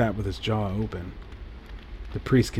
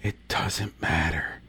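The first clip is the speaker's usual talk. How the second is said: slow, soft and hopeless, much softer; despondent whisper; 5 semitones lower, 6 dB quieter, slower than usual. A narrator's reading. Priest to Paul, despondent and hushed. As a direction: let the words sink, beaten down. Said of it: "he whispered with despondency".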